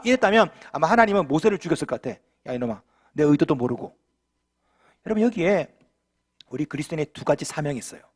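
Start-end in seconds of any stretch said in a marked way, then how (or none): 2.5-4.0 low, gruff scolding voice of God. Pretend. Imagined God rebuking Moses in a low scold. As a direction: scold him like a displeased God, lower.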